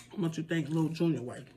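talking while crunching food; mouth full. Real, not acted. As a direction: say it through a mouthful. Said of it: "can you hear me crunching?".

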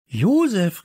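high, loud glad call. A narrator's reading. Two boys on finding Josef, calling out. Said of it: "riefen Samson und Leo".

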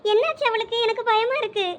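she's near tears, begging for news; tearful worry. Acted. Wife crying to Ajay about missing Shalini, tearful. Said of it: "எதுக்குடி இப்ப சும்மா அழுதுகிட்டு இருக்க".

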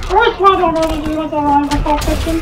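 Elmo voice. Pretend. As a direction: stay in the cheerful Elmo voice. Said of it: "I can't even stop now".

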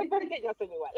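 amused, laughter running into the words; laughing. Real, not acted. Admitting she is the same too, laughing. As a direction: say it through a laugh. Laughs at her own admission.

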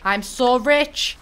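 slow, savoured smug boast; gloating. Real, not acted. Gamer gloating to viewers about being rich. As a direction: savour the riches.

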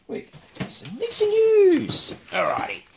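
hammed-up news jingle voice; announcer voice. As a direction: boom it out like a show host. Announcing a show segment.

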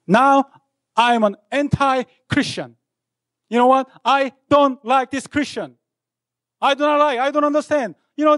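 rebellious student declaring war on God; defiant proclamation. Retold or imitated. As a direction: proclaim it up high and forcefully. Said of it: "And I proclaimed myself".

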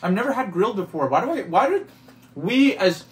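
talking while chewing; mouth full. Real, not acted. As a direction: speak round a mouthful of food. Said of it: "your mouth is full of food".

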